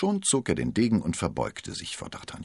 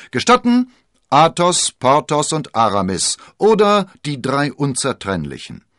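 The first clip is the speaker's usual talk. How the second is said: proud musketeer; 9 semitones higher, 11 dB louder than usual. Acted. Athos introduces the three musketeers.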